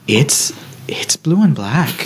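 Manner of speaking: breathy, laughing half-whisper. Retold or imitated. Letty gently insisting.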